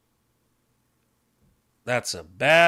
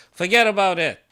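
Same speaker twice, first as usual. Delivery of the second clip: louder emphatic repeat; 5 semitones higher, 6 dB louder than usual. Real, not acted.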